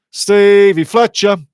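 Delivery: ordinary talk, nothing marked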